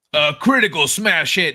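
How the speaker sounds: exaggerated, absurd over-the-top big-promo announcer delivery. Ironically calling something a critical hit, absurd announcer voice. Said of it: "I said it with like a with an absurd announcer voice".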